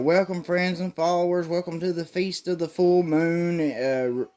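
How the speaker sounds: high, grandiose ceremonial announcement; mock cult leader. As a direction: proclaim it like a hammed-up cult priest. Cult leader addressing followers.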